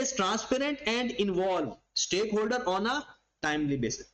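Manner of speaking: very slow, word by word, like dictating notes; slow dictation reading. Shown as a demonstration. Teacher dictating to students, very slow reading. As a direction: spell it out slowly for students to copy. Reading the syllabus point aloud.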